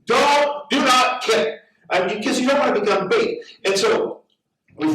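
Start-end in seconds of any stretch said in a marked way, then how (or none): 0.0-1.6 imitating crowd yelling. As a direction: warn her urgently, crowd style. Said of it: "they all start yelling".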